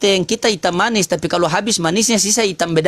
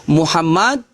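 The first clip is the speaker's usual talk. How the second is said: recited shahada; slower than usual. Shown as a demonstration. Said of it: "Kalau bersyahadat itu".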